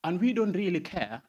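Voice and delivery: spoken word performer building to a loud peak; spoken word poem. Acted. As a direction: perform it like a slam poem, rising in force.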